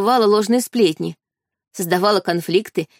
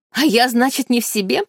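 shouted; 4 semitones higher than usual. Acted. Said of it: "закричал Эрик".

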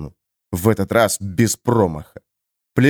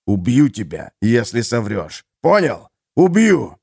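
угроза. Acted. Харман угрожает пленнику.

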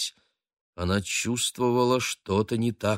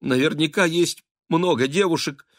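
trembling lips; 9 semitones higher, 4 dB louder than usual. A narrator's reading. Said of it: "трясущимися губами".

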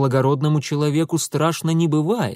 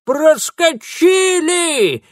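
very slow, very high, loud squeal; old woman squealing with joy; triumphant shriek; 14 semitones higher, 6 dB louder, much slower than usual. A narrator's reading. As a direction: shriek in triumph waving the stick. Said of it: "заверещала бабка".

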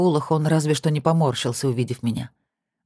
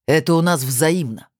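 yell. Acted. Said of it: "заорал он".

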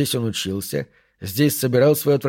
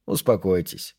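low, composed instruction; calm and unemotional, pitched low; neutral tone; 5 semitones lower, 4 dB quieter than usual. Acted. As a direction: settle the listener with a low, even voice. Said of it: "произнёс Пендергаст нейтральным тоном".

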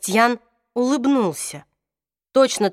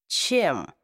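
quiet, cracking question; stunned whisper-thin crack; voice breaking; 5 semitones lower, 5 dB quieter than usual. A narrator's reading. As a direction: let the voice break on it. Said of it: "Голос у Джейса надломился".

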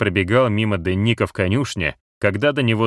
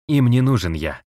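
voice jumping with tension; 4 semitones higher than usual. Acted. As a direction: pitch leaping from strain. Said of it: "его голос скачет от напряжения и волнения".

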